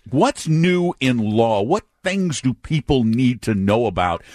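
slow, deliberate interviewer voice; mock interviewer. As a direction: ask it slowly like an interviewer. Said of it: "I'm gonna interview you for a change".

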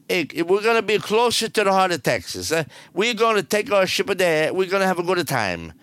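hammed-up bad Italian accent. Radio host teasing listeners with a trivia clue, bad Italian accent. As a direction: put on a corny Italian accent. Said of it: "That's the worst Italian accent".

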